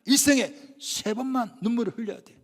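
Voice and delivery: a hint of a stern father. Father lecturing his grown son on crying, lightly stern. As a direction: lay down the rule as a father, lightly acted. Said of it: "아버지가 뭐라 말합니까".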